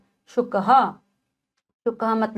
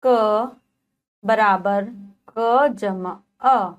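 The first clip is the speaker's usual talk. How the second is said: slow spelling; much slower than usual. Shown as a demonstration. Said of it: "teacher spells syllable".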